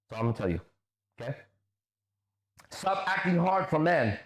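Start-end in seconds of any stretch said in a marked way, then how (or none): 2.7-4.2 high, slow quoted jibe; mocking read-out. Streamer reading out an opponent's jibe, mockingly. Reads opponent's taunt aloud.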